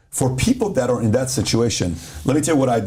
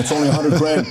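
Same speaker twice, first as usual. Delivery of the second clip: laughing pitch; 4 semitones higher than usual. Retold or imitated. Pitching jet split, laughing.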